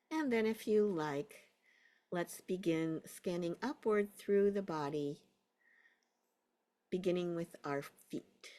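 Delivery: unhurried guiding voice with long pauses; guided meditation. Real, not acted. Teacher settling a class into a body scan, guided meditation. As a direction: ease them into a body scan.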